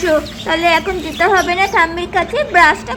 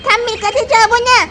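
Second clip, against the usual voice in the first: put-on higher, whining frightened boy; scared child; 5 semitones higher than usual. Little boy refusing to go near granny, higher scared whine. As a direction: beg not to go to the ghost granny.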